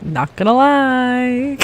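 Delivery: slow posh-British delivery of Not gonna lie; British accent. Shown as a demonstration. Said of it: "I have a pretty good accent".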